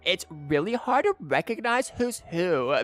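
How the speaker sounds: put-on valley girl voice. Shown as a demonstration. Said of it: "they all just kinda talk like this".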